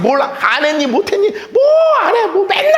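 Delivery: high-pitched imitated nagging; mock parent-child squabble; quarrelling with child. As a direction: scold in a rising, exasperated pitch. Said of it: "자녀하고도 싸울 때도요".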